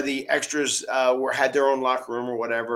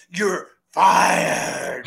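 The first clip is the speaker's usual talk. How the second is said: mock angry; 4 semitones higher, 5 dB louder than usual. Vince retold.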